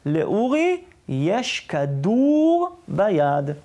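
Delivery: drawn-out teaching sentence with a long "כדור"; slow, sounded-out example for learners; demonstration sentence. Shown as a demonstration. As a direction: stretch the oo in "כדור" slowly. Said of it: "המשפט הזה".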